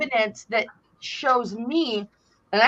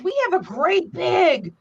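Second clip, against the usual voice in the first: mock proud shout; 2 semitones higher than usual. Aunt telling nephew about her tree, raised boast. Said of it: "I said".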